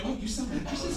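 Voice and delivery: high, soft questioning voice; mock-innocent rising question; surprised guest. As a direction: lift it high, lightly, as a puzzled customer.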